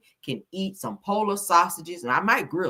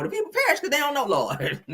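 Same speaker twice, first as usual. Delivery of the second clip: rapid mock preaching; 7 semitones higher, faster than usual. Repeats the sermon line fast.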